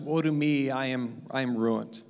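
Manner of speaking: a quiet, falling woe; confession of despair. Retold or imitated. A preacher quoting Isaiah's despairing confession, hushed. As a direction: murmur it as a ruined confession. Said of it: "he starts to confess".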